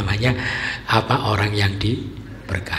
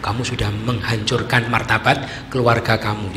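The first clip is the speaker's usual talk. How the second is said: reproaching townsfolk. Retold or imitated. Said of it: "Mereka bilang".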